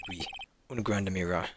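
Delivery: put-on French chef voice; French accent. Chef explains the mirror to the court, French accent. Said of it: "my French accent".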